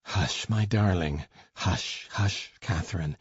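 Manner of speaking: calm her down gently; soothing hush. A narrator's reading. Heathcliff soothing Catherine.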